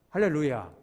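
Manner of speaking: loud, ringing hallelujah; hallelujah shout. Real, not acted. Preacher lifting the congregation, loud hallelujah. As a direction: proclaim it to the whole room.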